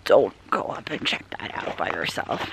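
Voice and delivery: imitating Drew. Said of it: "he'd be like".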